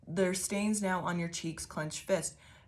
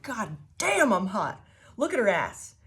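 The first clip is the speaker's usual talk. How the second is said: mock self-admiration; 2 semitones higher, 5 dB louder than usual. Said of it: "looking in the fucking mirror and be like".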